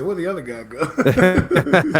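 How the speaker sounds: high, loud, slow mock Dave voice; hammed-up squeaky Dave; imitating Dave. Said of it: "Dave said".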